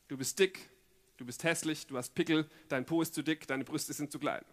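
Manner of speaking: low, soft put-downs; critical inner voice. Acted. Inner voice to someone at the mirror, low and belittling. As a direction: list the faults quietly, like a nagging thought.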